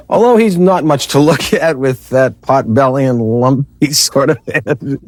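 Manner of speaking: trying not to laugh. Real, not acted. Anchor breaking up reading story.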